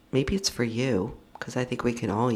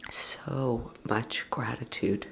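slow, whispered, choked-up "so much gratitude"; barely holding back tears; voice breaking with emotion; slower than usual. Real, not acted. To her podcast listeners, on leaving home, near tears. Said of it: "I hope you hear it in my voice".

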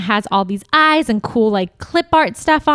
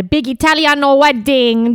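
mock Italian accent; 4 semitones higher, 3 dB louder than usual. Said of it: "Do you guys like my Italian accent?".

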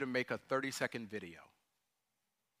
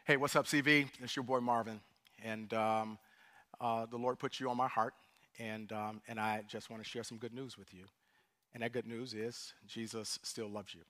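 sample video message; 2 semitones lower than usual. Shown as a demonstration. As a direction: speak gently to someone you care about. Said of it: "it might look something like this".

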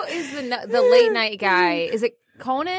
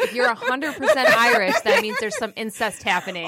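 laughing through the quote; 2 semitones higher than usual. Retold or imitated. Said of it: "And they're like".

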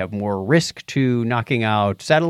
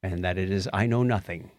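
quoting Socrates. Retold or imitated. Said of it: "Socrates is quoted as saying".

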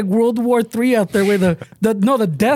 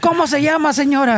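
mock kid voice; 4 semitones higher than usual. Mock kid asking the lady.

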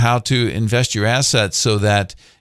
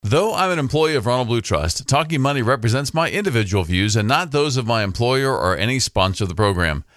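fast legal disclaimer. Acted. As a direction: rattle off the fine print.

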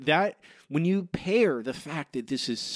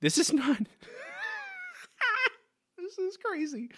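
incredulous outburst; 3 dB quieter than usual. Real, not acted. Outraged at the Marge lookalike.

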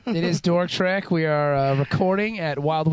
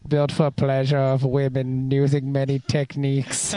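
lower, stiff robot monotone; 5 semitones lower than usual. Acted. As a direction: recite like a pleasure bot. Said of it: "cybernetic organism".

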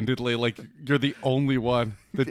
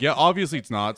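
sarcastic. Retold or imitated.

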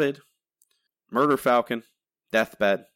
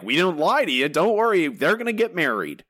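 mock reassuring Marvel; 8 semitones higher, 3 dB louder than usual. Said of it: "Marvel's literally like".

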